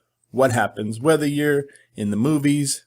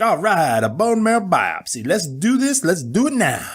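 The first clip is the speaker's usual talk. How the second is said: eager; 4 semitones higher than usual. Retold or imitated. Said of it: "I was like".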